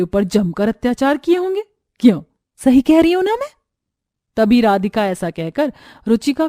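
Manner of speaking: lightly voiced villainess, mock-sweet then threatening; menacing sister-in-law.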